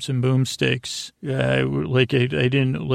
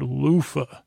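release sigh. Shown as a demonstration. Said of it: "'cause it's a real release word".

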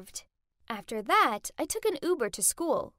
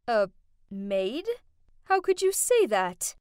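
hurt disbelief, rising to an upset protest; crushed; 3 semitones lower, 4 dB louder than usual. A narrator's reading. Mother disowned by her daughter, crushed. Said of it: "My mom looked crushed and said".

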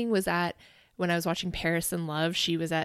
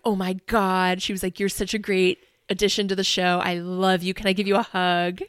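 louder, gushing fan rush; retelling a star's gushing, thrilled outburst; excited fangirling; 7 dB louder than usual. Retold or imitated. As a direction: gush like a starstruck fan meeting her idol. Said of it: "she was, like, freaking out".

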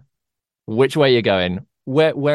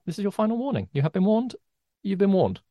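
nicest warning; 6 semitones higher, faster than usual. Acted. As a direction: warn them kindly, like a friend. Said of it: "the nicest way anyone has ever said".

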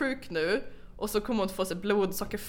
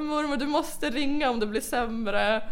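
retold insistent plea; 5 semitones higher, slower than usual.

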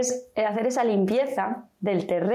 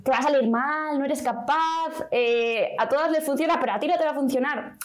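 paralysing inner voice; 4 semitones higher than usual. Retold or imitated. The inner voice of fear talking her out of it, lightly discouraging. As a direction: lightly voice the fear that tells you no. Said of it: "esa otra vocecita que nos paraliza, que nos dice".

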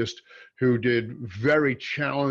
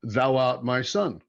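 solemn channel voice; 2 semitones lower, slower than usual. Retold or imitated. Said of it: "She said to me".

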